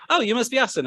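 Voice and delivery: lightly voiced interviewer calling a greeting; interviewer's greeting.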